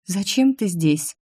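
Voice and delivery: slow, mildly puzzled question; understated wondering, drawn out; mild surprise. A narrator's reading. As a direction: ask slowly, a touch surprised. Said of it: "чуть удивлённо прошептала Ксенька".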